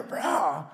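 small voiced mock roar; imitated lion roar. Preacher echoes the lion's roar for the congregation, restrained mock roar. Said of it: "whether it's soft or loud".

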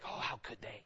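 hushed unvoiced gasp of gossip; gossiping whisper. Church members whispering gossip about the person who hurt them. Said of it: "go like".

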